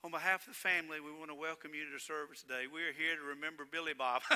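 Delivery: understated mock service opening; mock funeral officiant. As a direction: rattle off a hint of a formal funeral welcome. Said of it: "imagine me doing that in a funeral service".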